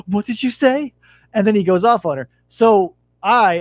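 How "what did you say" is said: retold challenge. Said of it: "And she's like".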